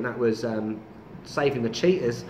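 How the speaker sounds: put-on light Australian accent; a touch of an Aussie twang. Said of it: "Why was that in an Australian accent?".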